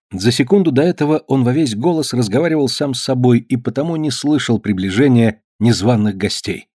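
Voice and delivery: plain reading voice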